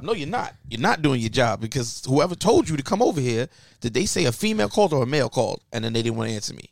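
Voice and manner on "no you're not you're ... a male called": indignant, fast and pushy; heated retort. Retold or imitated. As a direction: argue back hard at the cop. Arguing with police officer.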